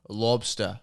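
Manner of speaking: non-rhotic "lobstah", mock Boston; attempted Boston accent. Host playing at being a Bostonian, attempted Boston accent.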